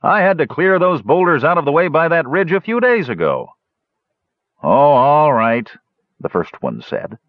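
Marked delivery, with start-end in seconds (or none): 0.0-3.5 sleepy guard voice. A narrator's reading. Second guard continues. 4.6-5.7 grumbling guard voice. A narrator's reading. First guard gives in.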